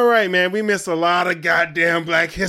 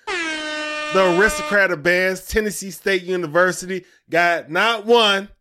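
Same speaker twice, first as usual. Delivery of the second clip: hyped; 4 semitones higher, 5 dB louder than usual. Real, not acted. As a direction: build the hype, savouring each word. Hyping the band's Grammys.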